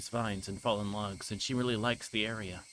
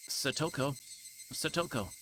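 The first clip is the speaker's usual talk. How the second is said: higher-pitched call into the woods; calling out loud; 4 semitones higher than usual. Acted. Brother calling for his sister lost in the woods, yelling out. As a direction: call her name across the trees. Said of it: "I'm yelling as loud as I can".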